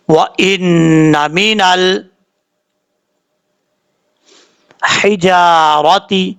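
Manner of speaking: measured tajweed recitation; Quran recitation. Acted. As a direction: recite the verse in a slow, chanted cadence.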